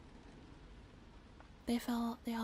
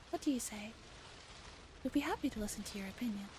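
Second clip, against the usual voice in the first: mock polite translation. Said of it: "Something like that?".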